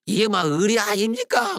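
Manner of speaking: mock Gyeongsang dialect. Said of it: "경상도 사투리 좀 쓰고".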